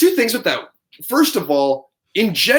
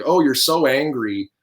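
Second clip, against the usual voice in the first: condescending mock; slower than usual. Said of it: "saying, like".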